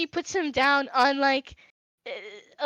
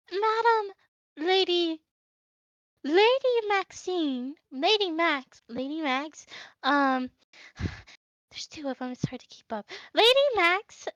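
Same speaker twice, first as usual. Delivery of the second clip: high, fumbling over the titles; nervous little maid stumbling over noble names; Tilda's flustered formal voice; 4 semitones higher than usual. Acted. Tilda curtsies to Lady Max and asks, flustered and high. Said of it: "and she goes".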